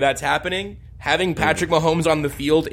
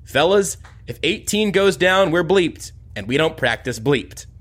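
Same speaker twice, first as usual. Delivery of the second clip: gravelly voice. Retold or imitated. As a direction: rasp it like a gruff old coach. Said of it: "said in that gravelly voice of his".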